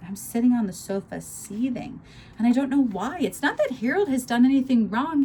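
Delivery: expressive read-aloud with acted dialogue; story narration. A narrator's reading. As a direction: read the novel aloud, living the quarrel. Reads novel aloud, animated.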